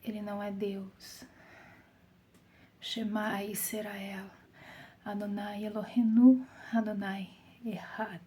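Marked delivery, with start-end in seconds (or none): 2.8-8.2 slow, hushed Hebrew recitation; solemn recitation. Real, not acted. Preacher reciting the Shema to the congregation, slow and hushed.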